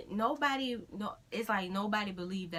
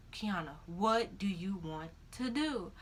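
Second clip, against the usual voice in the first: imitated exasperation; slower than usual. Boyfriend quoted, answering her dithering.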